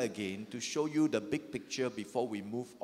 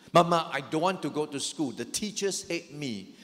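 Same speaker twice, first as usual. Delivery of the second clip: a louder mock whine from a son; whining son, louder; 4 dB louder than usual. Son begging his mother to skip school, louder mock whine. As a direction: push the childish plea up.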